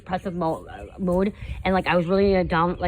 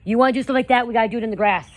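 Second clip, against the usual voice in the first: yelling across the room; 4 dB louder, faster than usual. Real, not acted. Mom calling out to child playing.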